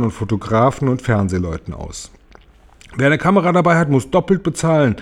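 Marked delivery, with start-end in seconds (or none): 3.0-5.0 lightly voiced greedy aunt calling out; a hint of a greedy aunt hawking entry. A narrator's reading. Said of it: "rief Tante Zinke".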